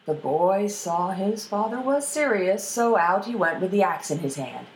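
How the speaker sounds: plain reading voice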